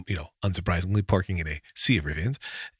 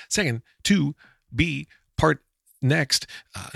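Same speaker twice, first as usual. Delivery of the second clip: cracking up; 6 semitones higher, 3 dB louder, much slower than usual. Real, not acted. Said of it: "I made myself laugh so much".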